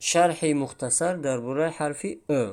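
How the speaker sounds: ordinary delivery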